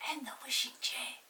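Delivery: hushed, breathy whisper. A narrator's reading. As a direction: whisper it secretly. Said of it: "said Molly in a whisper".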